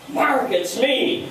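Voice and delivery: high, stretched-out announcement; retold excited greeting. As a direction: imitate someone bursting back with news, drawing it out. Stacy returns with big news.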